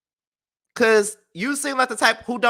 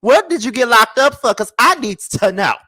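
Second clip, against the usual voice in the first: louder, eager mock interrogation; nosy demanding question; 4 semitones higher, 5 dB louder than usual. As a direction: press her hard for the gossip. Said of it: "I am going to ask her".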